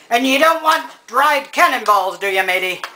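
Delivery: pirate talk. Pretend. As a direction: toss it off like a playful old sea dog. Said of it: "you gotta learn to talk like that".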